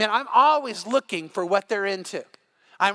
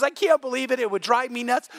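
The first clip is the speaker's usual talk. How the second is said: freaked-out friend; 5 semitones higher, 3 dB louder than usual. Retold or imitated. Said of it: "he's freaked out".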